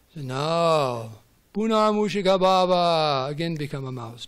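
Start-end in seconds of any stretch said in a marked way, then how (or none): 0.3-3.3 louder, slow commanding pronouncement; the sage reverses the spell; stern command. Acted. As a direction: lay down the curse. Yogi's stern curse.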